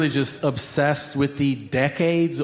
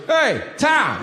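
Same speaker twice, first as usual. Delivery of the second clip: higher, eerie little "Hey, Tom"; creepy kid whisper-call; 9 semitones higher than usual. Retold or imitated. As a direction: call him like a menacing child at night. Son wakes dad at 3am.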